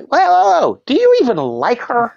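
put-on high, loud whoa to the teens; mock scolding. Clown scolding teenage boys with a loud high whoa. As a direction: call them out, half-joking. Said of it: "I will say".

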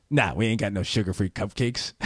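mildly dismissive mock clerk; rude shop clerk. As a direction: brush the customer off, imitating an offhand worker. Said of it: "my interpretation of how she came across".

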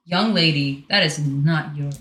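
low, slow scolding of a pet; stern mother telling off the dog; stern mom voice. Real, not acted. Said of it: "I had to be a mom for a second".

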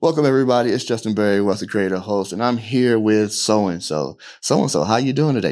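a touch of a stock podcast welcome; lightly hammed-up formal host opening; mock show-host greeting to a guest; cheesy host intro. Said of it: "I'm doing the whole".

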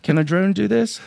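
lightly imitated high sitcom nerd voice; a hint of a squeaky nerd impression; Urkel. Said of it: "In my best Urkel accent".

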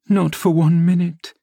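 high-pitched firm refusal; desperate refusal. A narrator's reading. Catherine refusing his plea.

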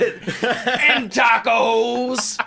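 "And tacos." drawn out very slowly, high and loud; and tacos, farmer voice. Retold or imitated. Quoting the farmer's tacos line, slow, high and shouted. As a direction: stretch "And tacos." out huge through a laugh. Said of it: "ruined the word tacos for me".

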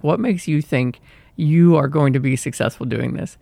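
lightly acted inner critic with attitude; a touch of scornful, challenging sass; sassy, insulting. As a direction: needle with mildly sassy doubt. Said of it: "it gets really sassy and it has an attitude".

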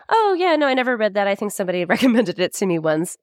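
high, sing-song fib to polite strangers; fake-innocent high voice. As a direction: pitch it way up, feigning ignorance. Fibbing to the British couple.

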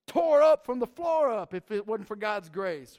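playful sarcastic paraphrase. Retold or imitated. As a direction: sneer the thanks like a backhanded compliment. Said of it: "it's really sarcastic".

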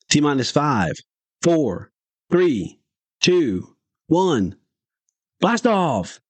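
rising, excited countdown to liftoff; shouted countdown. Retold or imitated. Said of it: "We both shouted".

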